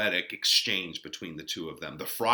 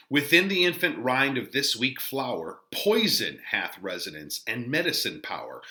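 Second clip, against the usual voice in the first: dramatic reading. Shown as a demonstration. Teacher reading Shakespeare aloud to the class, measured. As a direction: read the friar's verse with weight. Teacher reads the friar's lines.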